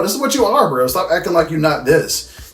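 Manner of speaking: high, loud mocking taunt; making fun. Lestat mocking Louis for his hypocrisy, making fun. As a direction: jeer at him as a hypocrite, pitch jumping up. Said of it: "starts making fun of him and his hypocrisy".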